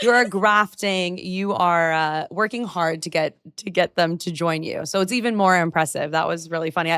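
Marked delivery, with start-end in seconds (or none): 0.0-1.2 "You are grafting" with grafting leaned on; stress on grafting. Shown as a demonstration. Host showing off British slang word "grafting" to guest, playful stress. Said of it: "notice my British slang".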